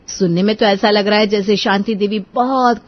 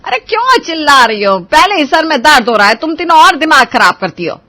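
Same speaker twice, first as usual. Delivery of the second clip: louder, higher exasperated scold; 6 semitones higher, 8 dB louder than usual. Acted. Mother-in-law scolding the three bickering bahus, loud and irritated. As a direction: tell them off, head aching.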